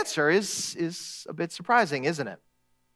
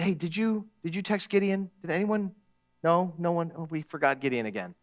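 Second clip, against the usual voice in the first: softer, offhand asking around; offhand check; 5 dB quieter than usual. Acted. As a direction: toss it off quietly to the group. Friends checking phones, forgot Gideon.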